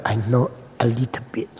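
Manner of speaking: low, soft, unassuming reply; modest understatement. Retold or imitated. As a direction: answer the challenger with quiet modesty. Downplays knowledge to cocky student.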